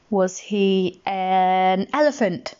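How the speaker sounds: slow, held lead-in before elephant; suspenseful stretch leading into elephant; teasing question. Shown as a demonstration. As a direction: draw out AN, then deliver elephant. Teasing guess question for listener.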